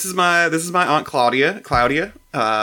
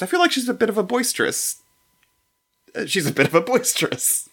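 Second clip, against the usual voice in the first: Claudia voice; 6 semitones higher than usual. Acted. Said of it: "me saying the word boisterous repeatedly".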